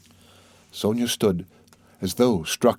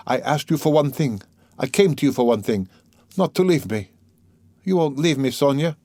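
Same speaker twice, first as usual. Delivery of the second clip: higher, urgent confession; troubled man, pleading; 5 semitones higher than usual. Acted. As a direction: work up to begging her to stay.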